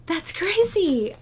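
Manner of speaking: high, quick retold disbelief; mock surprise. Vlogger retelling her reaction to a second package, mock surprised. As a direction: replay her own stunned reaction, pitched high. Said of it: "and I was".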